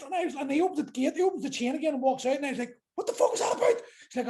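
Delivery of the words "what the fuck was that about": retold disbelief. Retold shock after the standoff.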